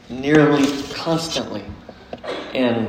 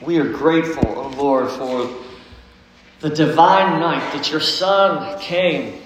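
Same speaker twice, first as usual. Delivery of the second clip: prayer. Real, not acted. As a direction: pray it from the heart, unhurried. Pastor prays before the sermon.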